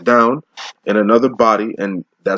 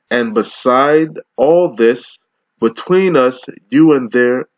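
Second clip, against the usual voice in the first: slow, raised Bible reading; preacher intoning the King James text; scripture reading; 2 semitones higher, slower than usual. Acted. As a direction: lift the verse up and let it ring. Reads scripture in sermon.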